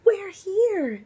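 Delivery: high, loud happy announcement; excited arrival. A narrator's reading. Mother announcing to the family at the motel, high and excited. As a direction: call it out like finally arriving.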